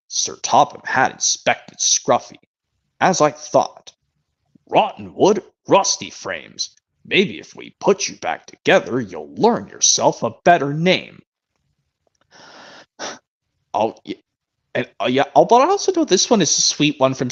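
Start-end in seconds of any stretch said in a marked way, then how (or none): 0.1-11.2 slow, measured storybook narration; deliberate narrator reading with drawn-out word endings; Carlin impression. Fan imitating Carlin as controller inspects Scruffy, narrator impression. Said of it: "now do Carlin".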